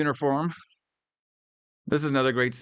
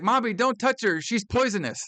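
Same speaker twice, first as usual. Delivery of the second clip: put-on kid quote; 9 semitones higher than usual. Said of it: "He's like".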